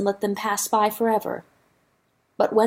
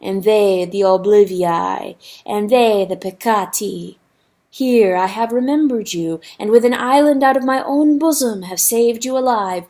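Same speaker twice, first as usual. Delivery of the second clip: ominous river voice. Acted. River curses the rooster.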